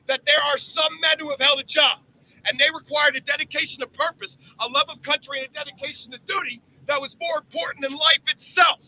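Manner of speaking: rising oratory, building to outbursts; formal speech. Acted. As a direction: deliver it like a senator on the floor. Recites a patriotic speech.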